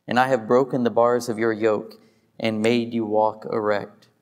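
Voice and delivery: steady, measured reading of God's promises; scripture reading. Acted. Pastor reads Leviticus aloud to the congregation, solemn. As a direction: read the blessings as solemn scripture.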